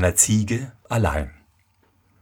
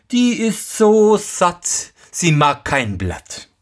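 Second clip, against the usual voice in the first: lügender Sohn; 8 semitones higher, slower than usual. Acted. Lügender Sohn antwortet dem Vater.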